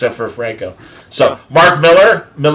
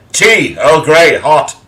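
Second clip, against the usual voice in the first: Picard order; 3 dB louder, much slower than usual. Retold or imitated. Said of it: "That's how he orders it on Star Trek".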